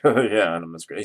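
a lightly voiced knowing sigh of a name; knowing, weary tone. Teacher who dislikes a colleague, lightly mocking knowingly. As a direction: say it like you know her too well. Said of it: "He said it like that".

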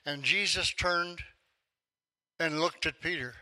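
slow, weighty reading of the verse; slow scripture reading. Shown as a demonstration. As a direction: lean on each word, slowly. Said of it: "Luke is the only gospel that records this phrase".

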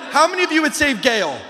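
calling out to the crowd. Shown as a demonstration. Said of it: "Let me try that again".

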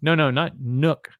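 put-on slowly coaching a small child's word; patient-style, drawn-out correction; mildly acted parent teaching "milk"; parent correcting toddler. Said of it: "And then we'll go".

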